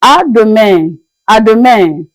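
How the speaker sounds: "À demain" with the final N dropped, ending like "meh"; silent final N. Shown as a demonstration. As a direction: model "À demain" clearly, leaving the last N unsounded. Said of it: "you silence the end".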